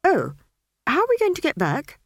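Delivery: a worried plea; fretful wizard. Acted. Wizard voiced.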